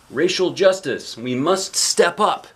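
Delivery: TV announcer read. Retold or imitated. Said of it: "says something on the T V".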